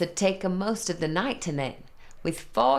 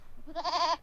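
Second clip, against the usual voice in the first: delighted giggle; 11 semitones higher, 5 dB quieter than usual. Acted. Troll opens present.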